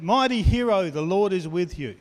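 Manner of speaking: high, loud ringing proclamation; proclaiming angel. Acted. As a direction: announce it like a herald from heaven. Angel announces to Gideon.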